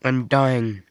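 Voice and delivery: hacking cough, then a groaned complaint; sick with a cold. Real, not acted. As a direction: cough and moan it through a cold. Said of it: "I have a cold".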